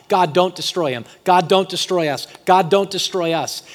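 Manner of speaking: loud, urgent plea; pleading. Retold or imitated. Moses begging God to spare his people, pleading. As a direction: plead it with mounting insistence. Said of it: "Moses is pleading with God".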